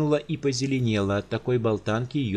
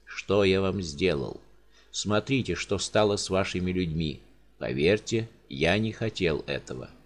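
sorrowful giant; 3 semitones lower than usual. Acted. Giant pleads with the countess over dead servants.

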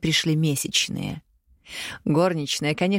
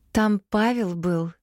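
slow and dreamy, higher; lightly voiced dreamy girl, slow; dreamy drawl; 4 semitones higher, slower than usual. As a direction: drift off on it, slowly. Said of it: "мечтательно протянула Ксения".

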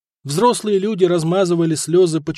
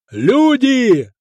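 loud, high call across the port; shouting to the crowd; 8 semitones higher, 6 dB louder than usual. A narrator's reading. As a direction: bellow it to the onlookers. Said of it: "заорал Виттерих зевакам".

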